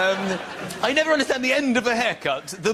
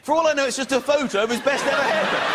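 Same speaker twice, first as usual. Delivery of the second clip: ordinary talk, nothing marked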